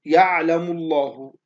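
يعلم الله with the L of الله heavy and dark, slowly; slow down and thicken the L in الله. Shown as a demonstration. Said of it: "كلمة يعلم الله جاءت هنا مفخمة".

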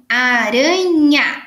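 Aranha said slowly, leaning on the final nha; drawn-out ending. Shown as a demonstration. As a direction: stretch the nha for the class. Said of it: "todas que tiverem N H A".

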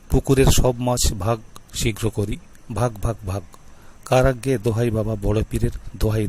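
measured incantation, each দোহাই dropping away; mantra recitation. Shown as a demonstration. Repeating the mantra for viewers to learn, chanted incantation. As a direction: chant the spell again word by word. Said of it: "আর একবার পড়ে শোনাই".

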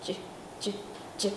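ch with the voice switched on; voiced ch buzz. Shown as a demonstration. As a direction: voice it out first. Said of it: "bật ra âm thanh trước".

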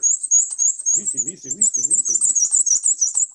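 loud squeaky weesey repeats; squeaky wheel birdcall. Retold or imitated. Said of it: "Sounds like a squeaky wheel".

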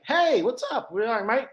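imitating Australians. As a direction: greet like a chirpy Australian mate. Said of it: "their racism is a little bit different".

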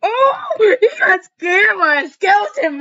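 high, loud startled yelp; excited shout. Real, not acted. Watching a skeleton jump scare, shouting excitedly. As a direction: burst out at the scare.

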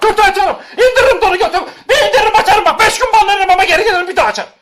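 high and loud, laughing through a mock threat. Streamer jokingly threatening his chat, laughing loudly. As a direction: cackle while threatening to strip on stream.

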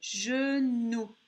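"Genou" slowly, with lengthened syllables; teacher dictating "Genou"; word sounded out. Shown as a demonstration. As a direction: stretch "Genou" clearly for a listener. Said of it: "on entend N".

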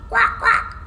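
two short, high quacks; duck quacking. A narrator's reading. Imitates duck walking away.

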